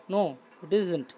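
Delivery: very slow, drawn-out answer for the class; slow teacher's dictation voice; slow model reading. Shown as a demonstration. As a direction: spell the reply out slowly. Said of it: "teacher reads model answer".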